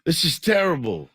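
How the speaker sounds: put-on a rough, half-hearted Manchester English accent, laughing through it; mock a singer's Mancunian accent, giggling. Host imitates the Manchester singer complaining about the weather, in a weak Manchester accent. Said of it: "I can't do his accent very well".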